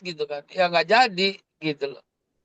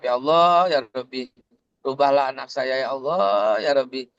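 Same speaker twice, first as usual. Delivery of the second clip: gentle prayer; 5 semitones lower than usual. Shown as a demonstration. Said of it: "pelan, halus gitu ya".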